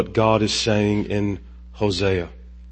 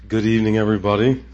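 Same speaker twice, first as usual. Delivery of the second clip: restarting the line; 3 dB quieter, much faster than usual. Real, not acted. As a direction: say it again, properly this time. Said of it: "Let me try that again".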